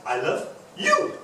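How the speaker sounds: "you" drawn out with rising pitch; slow down and land hard on "you"; stretched, emphatic "you" at the end; stress on you. Shown as a demonstration. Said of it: "The third one is".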